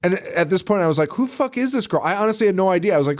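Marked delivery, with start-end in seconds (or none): 1.1-2.0 high-pitched, incredulous recap; retold bafflement. Viewer replaying confusion over the girl, high and baffled. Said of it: "I couldn't figure it out".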